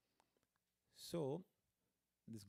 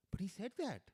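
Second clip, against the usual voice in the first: inner debate; 6 semitones higher than usual. Retold or imitated. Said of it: "like a confusion in his mind".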